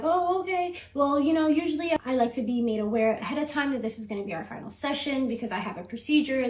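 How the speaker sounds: mock the therapist's startled reply; flustered therapist. Imitating the startled therapist told it's the last session. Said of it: "She was like".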